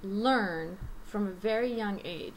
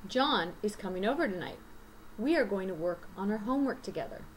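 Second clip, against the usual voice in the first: content words stressed, function words light; native reading demo; faster than usual. Shown as a demonstration. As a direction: read it as a natural example sentence. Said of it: "how a native person sounds when they're reading".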